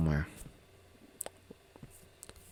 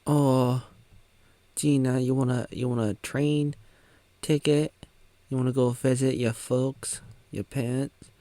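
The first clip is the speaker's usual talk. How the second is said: lightly voiced husband; 4 semitones higher than usual. Husband voiced offering train ticket.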